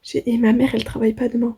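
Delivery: ordinary talk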